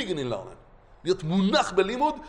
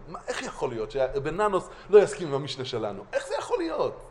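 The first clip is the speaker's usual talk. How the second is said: pained disbelief; 3 semitones higher than usual. Retold or imitated. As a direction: protest it as if it personally hurts. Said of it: "זה כאב לנו".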